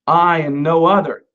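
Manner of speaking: "I" stressed firmly, then "no other"; making a strong point. Acted. Preacher voicing the Lord making a strong point, emphatic. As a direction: put firm weight on "I". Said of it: "he's really making the strong point".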